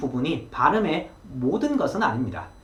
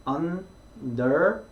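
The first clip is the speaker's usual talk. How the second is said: understand with the stress on the last syllable, stand, drawn out; much slower than usual. Shown as a demonstration. Teacher models understand with the third syllable stressed. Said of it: "강세 개념이 세 번째".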